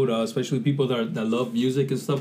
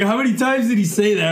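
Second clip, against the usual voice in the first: mock puzzled fan voice, pitched up; imitating confused audience; 7 semitones higher, 4 dB louder than usual. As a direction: play a baffled listener asking. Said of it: "Everyone's like".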